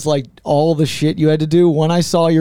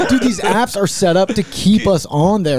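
slow preachy tech-bro voice; paranoid tech bro. Pretend. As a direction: lecture slowly like a conspiracy bro. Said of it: "Yeah, that's what he says".

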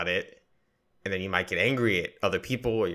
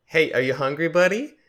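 sing-song high coddling voice, louder; high, loud baby talk; 9 semitones higher, 8 dB louder than usual. Retold or imitated. Ex-girlfriend coddling a hangry boyfriend like a child, high and loud baby talk. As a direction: talk to him like a toddler, much higher and louder. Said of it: "ex-girlfriends that were like".

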